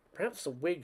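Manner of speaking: musing. Acted. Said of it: "she mused".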